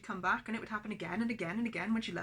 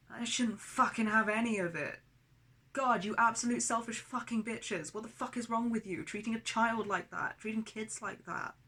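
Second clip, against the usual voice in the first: raised, higher furious rant; real anger; 3 semitones higher, 4 dB louder than usual. Real, not acted. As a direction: let the rage out at them. Raging at abusive parents.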